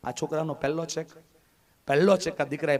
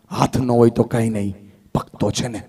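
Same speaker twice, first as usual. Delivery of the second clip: loud declaration; 4 semitones lower, 7 dB louder than usual. Shown as a demonstration. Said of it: "તારે ઊંચા અવાજે કહેવાનું".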